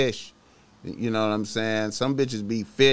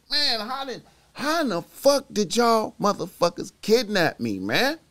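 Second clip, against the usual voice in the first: retold angry; 8 semitones higher than usual. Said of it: "I was pissed at the homies".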